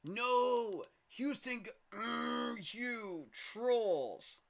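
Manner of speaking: high, loud cry of outrage; shocked shout. Real, not acted. Gamer yelling at Houston for stealing his draft pick, outraged shout. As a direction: yell betrayal at Houston's pick.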